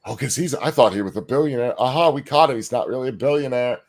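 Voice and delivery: put-on dopey gotcha voice; mocking critic voice. Host mimicking critics who think they caught him, mocking. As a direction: mimic a smug accuser crowing.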